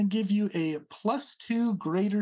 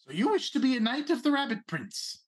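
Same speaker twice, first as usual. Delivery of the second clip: lightly raised, pompous little prince; a hint of a haughty rabbit noble; 8 semitones higher, 3 dB louder than usual. Prince asks a question.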